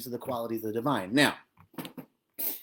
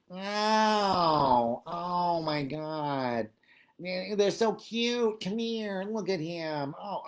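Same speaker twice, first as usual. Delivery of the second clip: imitating gushing neighbor; 3 semitones higher, much slower than usual. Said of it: "I overheard".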